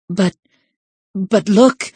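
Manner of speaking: high, hammed-up protest; wail. Septima protesting to the professor, wailing. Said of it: "Septima wailed".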